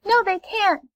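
high, light little-ray voice. Acted. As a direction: pipe up as a small ray refusing. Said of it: "said a little ray".

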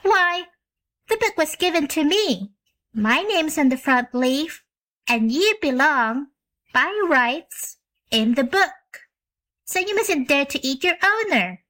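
put-on high, firm girl claiming ownership; a child laying down the law; little girl voice. A narrator's reading. Jane Gladys telling the bear he is hers, high and firm.

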